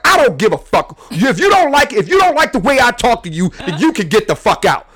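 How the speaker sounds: high, loud shouted scolding; mom yelling. Retold or imitated. Mom telling her son to get out, shouting high. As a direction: blow up at him like a furious mom.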